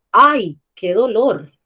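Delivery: ¡Ay, qué dolor! dicho más alto y lento, con emoción; léelo con tono más alto, emocionada. Shown as a demonstration. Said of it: "lo tengo que leer en un tono de voz más alto, porque estoy emocionada". (¡Ay, qué dolor! en voz alta y emocionada)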